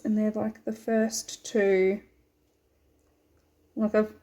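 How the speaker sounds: talking around a needle held in the lips; needle in mouth. Real, not acted. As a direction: speak with a needle between your lips. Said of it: "sorry, I put a needle in my mouth".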